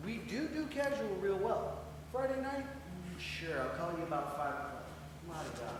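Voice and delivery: mocking. Mocking casual dating.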